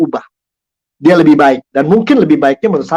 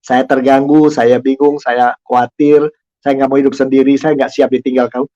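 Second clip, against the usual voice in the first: owning feelings. Shown as a demonstration. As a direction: confess it gently, owning the feeling. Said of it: "mulai dari mengakui diri kita".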